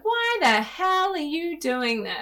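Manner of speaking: mock your own harsh inner voice; nagging inner critic. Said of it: "your brain will come in and be like".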